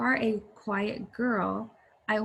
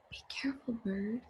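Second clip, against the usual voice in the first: whisper; 10 dB quieter, faster than usual. Acted. Mary, quiet girl, speaks to bird.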